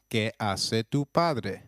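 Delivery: slow model phrase. Shown as a demonstration. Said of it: "So now you know".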